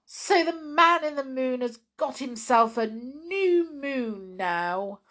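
high, loud, excited mouse thought; delighted mouse. Acted. Waffles to himself, thrilled at seeing the moon. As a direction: marvel at the new moon. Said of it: "he thought".

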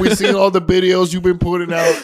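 lightly voiced dad. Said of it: "we're your parents".

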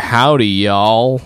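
slow, drawn-out mock Southern drawl; lightly hammed Southern greeting; mock Southern accent. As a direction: drawl it like a joking cowboy. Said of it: "start talking like".

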